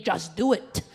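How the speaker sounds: booming Nike ad voice ringing in her ears; ad voice in her head. Retold or imitated. Recalling her dad's ad, a booming slogan voice. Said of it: "It was my dad's Nike ad".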